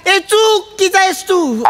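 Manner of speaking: half-hearted imitation of her yelling; mild mock yell. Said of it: "असं ती ओरडली".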